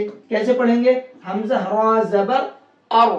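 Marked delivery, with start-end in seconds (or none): 1.2-3.1 slow spelling to a rounded "अर"; heavy Ra. Shown as a demonstration. Teacher answering how to read it, heavy Ra. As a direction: stretch it out, ending on thick "अर". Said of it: "उसको मोटा करके पढ़ेंगे".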